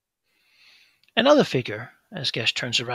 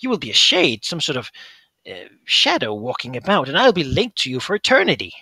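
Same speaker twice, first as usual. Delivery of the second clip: higher, anxious coaxing; warning creature voice; 6 semitones higher, 4 dB louder than usual. Acted. Fingermuncher warning Gesh not to return, higher anxious voice. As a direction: warn him of becoming a shade.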